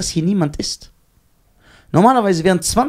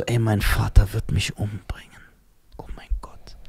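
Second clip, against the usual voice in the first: whispered panic; 6 semitones lower, 5 dB quieter than usual. Retold or imitated. To friend, reliving the crash panic in a whisper. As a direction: whisper it like a scared kid.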